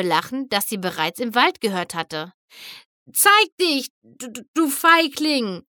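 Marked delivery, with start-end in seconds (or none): 3.1-5.6 high, loud, stuttering defiant yell. A narrator's reading. Rainbow yells at the hidden figure in the fog. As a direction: challenge the coward, stammering with rage. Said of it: "schrie Rainbow".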